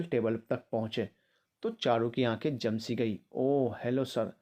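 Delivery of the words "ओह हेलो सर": slow, hammed-up gushing hello; a theatrical fawning greeting; overacting. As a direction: lay it on thick, over-the-top. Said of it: "over acting पर उतर आया".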